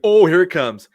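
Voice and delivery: high, loud burst of excitement; excited anticipation. Retold or imitated. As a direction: call it as the runner breaks for home. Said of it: "It's like".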